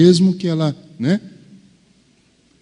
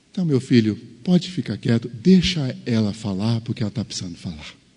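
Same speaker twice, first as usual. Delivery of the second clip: soft, tender fatherly reply, fading almost to a hush; the Lord gently telling the husband to let her speak, soft and tender; gentle divine answer; 4 dB quieter than usual. Acted. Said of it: "perguntasse assim".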